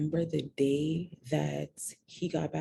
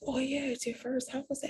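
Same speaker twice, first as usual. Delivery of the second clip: voicing the sister's nosy excitement, pitched up; eager sister, higher; 10 semitones higher than usual. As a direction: play the curious sister, much higher. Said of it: "then she was like".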